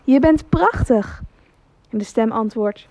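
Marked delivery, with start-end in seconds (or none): 0.0-1.2 high, slow warm call. Acted. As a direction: call slowly across the valley. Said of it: "de vader roept". (vader roept langzaam naar de bergen)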